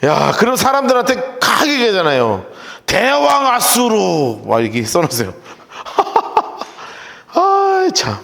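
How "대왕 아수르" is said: 느리게 뽐내듯 늘여 말하기; 대왕을 자처하며 거들먹거리기; 거만한 왕 흉내. Retold or imitated. (대왕 아수르를 뽐내듯 천천히)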